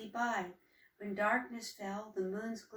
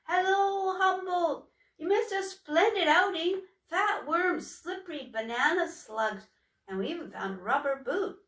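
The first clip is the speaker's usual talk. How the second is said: much higher and louder, bubbling over; excited sister; 8 semitones higher, 8 dB louder than usual. Acted. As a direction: burst in full of news from the outing. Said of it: "Troika was out of breath with enthusiasm".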